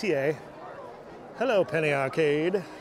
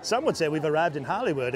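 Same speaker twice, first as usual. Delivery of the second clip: put-on old-timey voice. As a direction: stretch the ooh like an old newsreel. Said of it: "our old-timey voices".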